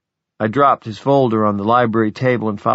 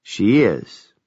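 put-on cracked old voice. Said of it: "Elizabeth's cracked but unmistakable voice".

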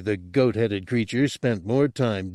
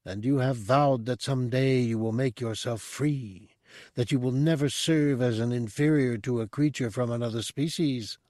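higher, calm all-knowing monk; mystic monk voice; 4 semitones higher than usual. Acted. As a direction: speak as a serene mystic. Monk's speech read aloud.

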